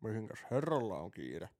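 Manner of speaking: slow, lightly voiced smug cop at the car window; a hint of a patronising policeman; mock police officer. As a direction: drawl it out like a smug traffic cop. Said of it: "sit se on".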